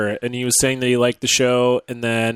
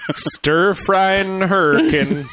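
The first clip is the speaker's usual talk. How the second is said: laughing; 6 semitones higher, much slower than usual. Pretend. Laughing mock of name.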